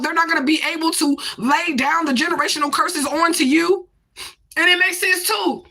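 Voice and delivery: tearful, voice wavering; real tears breaking through the words; speaking through real crying. Real, not acted. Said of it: "I'm crying".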